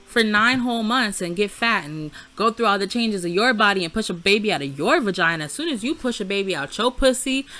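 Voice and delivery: loud, heated venting; angry rant. Real, not acted. Ranting at the boyfriend Sim over the abortion, loud and angry. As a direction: let it rip, fed up and loud.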